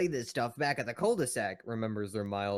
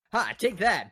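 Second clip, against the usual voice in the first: gloating laugh; 8 semitones higher, 5 dB louder, slower than usual. Acted. Eddie gloating in game.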